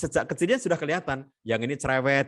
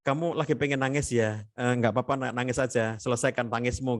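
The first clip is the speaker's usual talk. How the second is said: accepting parent; 2 semitones lower than usual. Acted. Parent letting a crying child cry, calm and accepting. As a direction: gently acknowledge the child's feeling. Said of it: "diakui perasaan nangisnya".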